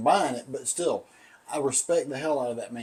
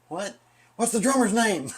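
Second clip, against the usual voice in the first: higher-pitched urgent phone question; imitated girlfriend; 7 semitones higher than usual. Girlfriend phones for the quiz answer, imitated urgent question. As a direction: imitate her calling, pitched up and insistent. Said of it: "called me and said".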